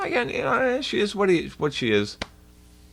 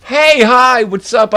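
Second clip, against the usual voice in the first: loud, higher hammed-up "Hey, hi, what's up?"; cartoonish poser hello, shouted; mock biker greeting; 10 semitones higher, 12 dB louder, slower than usual. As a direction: yell it out like a wannabe tough guy. Mocking the fake biker's greeting.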